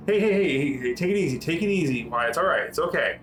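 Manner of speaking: calming woman director. Acted. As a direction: ease the waking man back, gently insistent. GM voices Director calming Wyatt.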